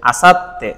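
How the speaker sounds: আসাত্তে as asat-te, 't' held; doubled consonant. Shown as a demonstration. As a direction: pause on the 't' in আসাত্তে before 'te'. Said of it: "দুইবার উচ্চারিত হয়েছে".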